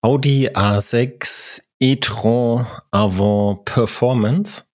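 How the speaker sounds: e-tron said the French way, slow and deliberate; Audi A sechs e-tron Avant, e-tron with French vowels; French pronunciation. Real, not acted. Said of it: "dass du e-tron extra französisch ausgesprochen hast".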